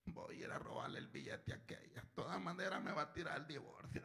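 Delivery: soft unvoiced whisper of a plotter; whispered scheming. Thief plotting to rob his ex-wife, whispering. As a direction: whisper the plan to yourself.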